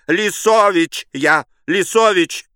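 very high, loud, drawn-out panicked cry; frantic shriek. Acted. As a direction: shriek it in terror. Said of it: "вскричал силуэт".

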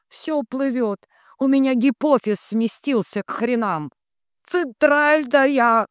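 high, loud stretched calls with peevish complaints; high-pitched grumbling switchboard medium; cranky entranced operator. A narrator's reading. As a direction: wail for the exchange, then scold in a high voice. Figure of Dunya on air.

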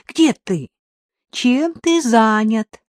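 worried. A narrator's reading. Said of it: "В голосе хозяйки звучало беспокойство".

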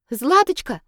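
loud, high call. Acted. Katerina calls out to her friend in the crowd.

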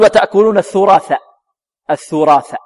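الثراث with th at both ends, thurath; both letters as tha. Shown as a demonstration. Teacher imitates students' mistake, th for t in الثراث. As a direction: lisp the first ta of الثراث into th. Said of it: "ربما البعض يقول".

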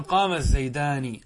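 قام الزيدان run together, no long aa after the m; no dual marker. Shown as a demonstration. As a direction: link قام straight into الزيدان (qaama z-zaydaan). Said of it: "هكذا دون علامة تثنية". (وصل «قام الزيدان» دون ألف التثنية)

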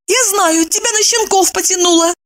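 high-pitched jab; wife's sharp retort. Acted. Wife teasing her friend, high and sharp.

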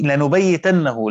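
لنبيتنه drawn out slowly, every syllable spelled out; slow Quranic reading of لنبيتنه; careful recitation. Shown as a demonstration. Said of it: "ضابطة هنا على قراءة".

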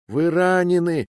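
громкий тревожный крик; прокричи в самое ухо. A narrator's reading. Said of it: "кричит она мне на ухо". (крик девушки сквозь шум боя)

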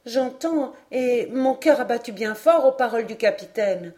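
a hint of an eager, moved girl; jeune fille émue. Narrator voices the young woman. (jeune fille émue, voix plus haute)

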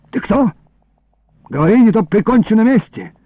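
high, urgent interrogation; threatening demand. Acted. Illarion grabbing the thief, threatening demand. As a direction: demand an answer with menace. Captor threatens the caught boy.

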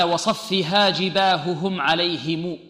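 slow, measured tajwid recitation; slow Quran recitation. Shown as a demonstration. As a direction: chant the verse slowly, each letter clear. Recites the verse slowly.

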